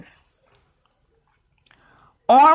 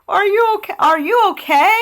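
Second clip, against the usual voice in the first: a lightly voiced girl, higher; concerned asking; 11 semitones higher, 4 dB louder than usual. Elizabeth asks the crying dragon if he's okay, higher and concerned. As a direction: ask gently, concerned. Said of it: "Elizabeth asked".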